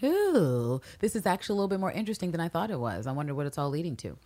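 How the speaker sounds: intrigued inner voice. Retold or imitated. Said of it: "You see her wheels going like".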